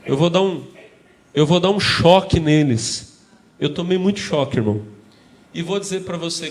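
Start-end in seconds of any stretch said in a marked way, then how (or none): 0.0-3.2 imitating angry pastor. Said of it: "meu pastor era muito bravo".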